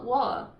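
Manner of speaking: wa, with the T cut off by a glottal stop. Shown as a demonstration. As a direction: stop the throat where the T goes in wa. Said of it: "muita gente fala wa".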